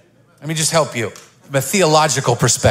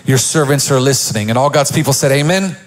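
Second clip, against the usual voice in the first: preacher's prayer. Real, not acted. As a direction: pray it over the church with conviction. Opening prayer.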